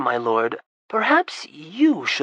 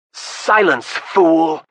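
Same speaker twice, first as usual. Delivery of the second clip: yelled back; 2 semitones higher, 7 dB louder, much slower than usual. Acted. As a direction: bark at the fool to shut up. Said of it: "Alex yelled back at him".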